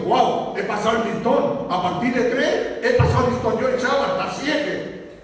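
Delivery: lightly laughing boast; a chuckling, self-satisfied Peter; Peter pleased with himself. Retold or imitated. Peter boasting to the Lord about forgiving seven times, laughing lightly. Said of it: "como diciendo".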